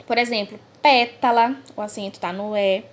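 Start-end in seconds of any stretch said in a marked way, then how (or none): 0.8-1.5 "pétala" with a loud, wide-open first E; open vowel. Shown as a demonstration. Teacher giving an example of the acute accent, open stressed E in "pétala". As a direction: hit the open É in "pétala" hard. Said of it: "indica o som aberto das palavras".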